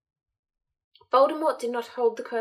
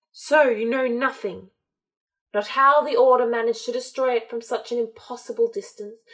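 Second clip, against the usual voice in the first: louder, contemptuous snarl; 4 dB louder than usual. Acted. Voldemort snarling at Malfoy over his failure, louder and scornful. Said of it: "Voldemort snarled".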